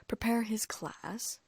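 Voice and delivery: slow, scornful repeat; sneering. Acted. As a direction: drag the words out in contempt. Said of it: "Ron sneered".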